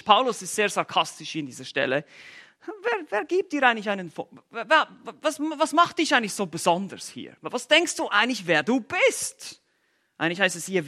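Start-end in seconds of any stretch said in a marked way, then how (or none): 2.8-9.6 sarcastic question. Retold or imitated. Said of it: "fragt er jetzt hier ganz sarkastisch".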